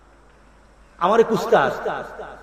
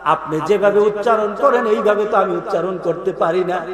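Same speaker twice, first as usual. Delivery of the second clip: tearful plea; 2 semitones lower than usual. Acted. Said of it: "চোখের পানি ফেলে দিয়ে বলল".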